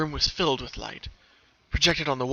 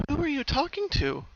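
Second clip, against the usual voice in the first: higher, puzzled question; confused; 13 semitones higher than usual. Acted. Bellamina to her sister, confused. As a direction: ask it baffled. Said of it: "Bellamina asked, confused".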